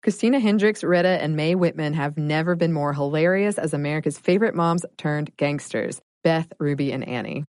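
polished, upbeat sponsor read. Acted. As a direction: sell it like a podcast advert. Reads a sponsor ad.

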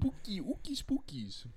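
playful spooky whisper; mock spooky hush. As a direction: whisper it like a campfire ghost story.

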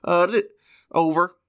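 CB trucker radio talk; over walkie talkie. Acted.

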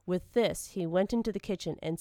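plain reading voice

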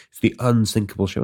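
a cocky boast, imitated lightly; mock boast. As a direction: show off about the unsinkable ship, half-joking.

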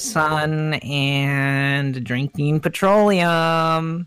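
slow, stretched-out pretend product spiel; mock district spokesman. District fourteen rep explaining toenail farming, slow mock spiel. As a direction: draw it out like a lightly played pitchman.

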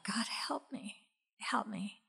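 soft, slow whispered prayer; an exhausted mother whispers a prayer for help; whispered plea. Retold or imitated. Retold desperate prayer.

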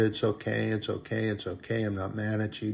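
imitating someone softly insisting all is fine; mock reassurance. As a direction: play-act brushing off an apology quietly. Upset woman reassures her friends.

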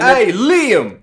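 Joey Wheeler. Acted. Greeting Liam on request, Joey Wheeler impression. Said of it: "Dom, you do Joey Wheeler".

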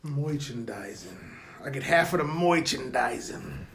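put-on low, old-timey Jewish accent. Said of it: "old-timey Jewish accent".

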